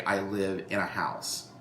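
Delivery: "I live in a house" with in a blended into one syllable; natural run-together speech. Shown as a demonstration. Teacher showing how "in a" merges when spoken. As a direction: let "in a" slur into a single beat. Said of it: "the way we say it".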